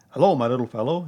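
loud, kindly owl greeting. A narrator's reading. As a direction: greet the little one indulgently. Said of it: "in a kindly way".

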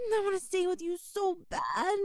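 begging through a near sob; crying, pleading plea. Acted. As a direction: voice breaking as she begs to stay. Stray begs to be kept.

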